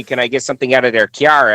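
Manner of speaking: "kiar" said for car, imitating friends' accent; imitated friends' accent. Guest teasing friends from there, imitated accent on "kiar". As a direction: say "kiar" with a y-glide after the k, mimicking. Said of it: "make fun of my friends there".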